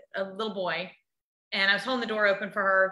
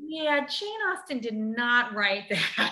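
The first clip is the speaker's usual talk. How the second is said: slow, drawn-out scoffing put-down; mock the show's makers, slowly; scoffing retort; 3 semitones higher, much slower than usual. To the show's makers, a slow scoffing retort. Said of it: "And I'm like".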